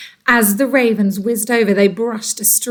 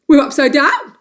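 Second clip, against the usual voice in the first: gasp; 4 semitones higher, 5 dB louder than usual. Acted. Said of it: "gasped Mister Twit".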